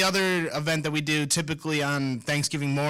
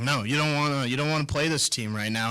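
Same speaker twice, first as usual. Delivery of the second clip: dry, sarcastic warning. Real, not acted. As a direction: say it with a sarcastic edge. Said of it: "the way I said that was kinda sarcastic".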